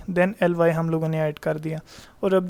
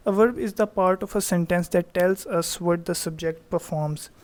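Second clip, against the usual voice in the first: slow definition read; much slower than usual. Shown as a demonstration. Teacher reads definition slowly.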